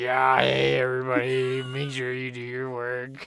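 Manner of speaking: slow, mechanical, electronic voice-box voice. Retelling what a limping teacher with a voice box said: imitating a voice box voice. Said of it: "He is more just like".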